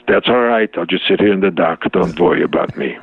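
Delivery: put-on light Yiddish accent, falling low at the end; lightly put-on Yiddish-accented Jewish mother; a touch of Yiddish martyred-mother resignation. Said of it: "little bit of a Yiddish accent".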